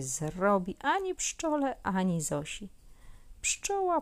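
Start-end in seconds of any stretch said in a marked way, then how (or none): none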